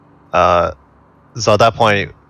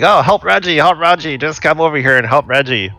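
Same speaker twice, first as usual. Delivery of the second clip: higher-pitched fake urgent plea; acted plea for help; 8 semitones higher than usual. Player voices Tom luring cultists over, feigned plea for help. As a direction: call for help as a ruse.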